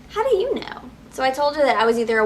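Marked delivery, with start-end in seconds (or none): 0.1-0.8 much higher disbelieving question; sharp, incredulous comeback. Retold or imitated. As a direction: challenge her, baffled. Challenging the clerk.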